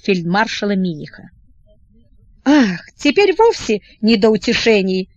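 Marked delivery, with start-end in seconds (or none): 2.4-5.1 irritated. Acted. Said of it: "раздражительно махнул рукой".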